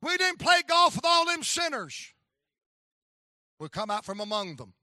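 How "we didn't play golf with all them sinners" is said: big loud preacher's cry; preaching shout. Acted. Preacher shouting to the church about golfers. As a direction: boom it out to the congregation.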